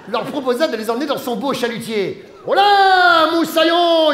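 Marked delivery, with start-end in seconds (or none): 2.5-4.1 loud, high sailor's shout; shouted hail. A narrator's reading. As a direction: bellow it across the deck. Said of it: "hurla le capitaine Igloo". (cri de marin, fort et aigu)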